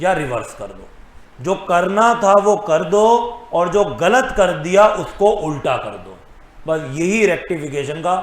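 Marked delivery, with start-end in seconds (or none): 1.4-6.2 slow, deliberate recital of a maxim; measured, firm teaching emphasis; emphatic rule recap. Real, not acted. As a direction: drum it into the class. Repeats whole rule to memorise.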